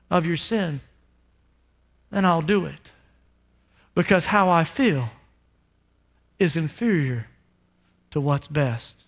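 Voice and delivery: hushed devotion, line by line; tender vow. Retold or imitated. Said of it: "he says to all of you".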